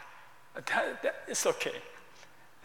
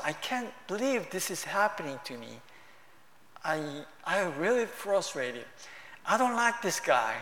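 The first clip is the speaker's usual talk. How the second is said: sincere simple prayer; 3 semitones lower, 5 dB quieter than usual. Retold or imitated. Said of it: "Just sincere and simple".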